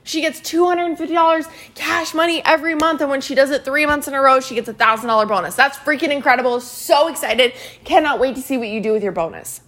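emphatic, enthusiastic praise; excited recognition. Shown as a demonstration. Coach demonstrating how to recognize a teammate, excited. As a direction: gush over a teammate's win. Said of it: "Do you see the difference?".

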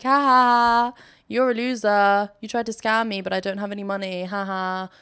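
mock taunting laugh and jeer; retold gloating, lightly hammed-up; trolling. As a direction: playfully rub it in like a teasing child. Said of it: "I was just trolling him".

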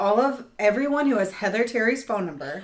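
laughing while asking. Real, not acted. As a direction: giggle through the request. Laughing request to listeners.

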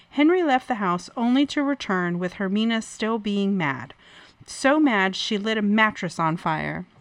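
measured true-crime read; story narration. A narrator's reading. Host reading a domestic violence case to co-host, story narration.

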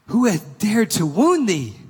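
loud, high, slow outraged demand; angry giant. Acted. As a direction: thunder it out as the furious giant. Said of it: "his face grew red with anger".

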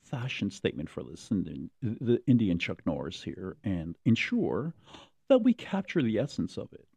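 lightly voiced fashion mentor, high at the end; mock Tim Gunn rallying designers; imitating Tim Gunn. Mock host rallying designers, high finish.

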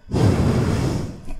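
breathy huffing into the mic; heavy nose breathing. Retold or imitated. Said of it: "you were like".

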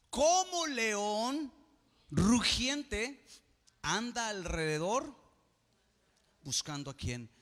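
high, loud roaring preacher cry; booming lion image. Acted. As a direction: roar it out like a lion.

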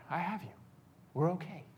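soft, hushed comforting words; retold fatherly reassurance. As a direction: gently reassure a child that it's safe. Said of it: "and I heard him".

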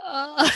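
imitated reaction noise. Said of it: "she's like".

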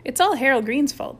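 high, loud tattletale accusation; tattling. A narrator's reading. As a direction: tell on someone eagerly. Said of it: "tattled Rudy".

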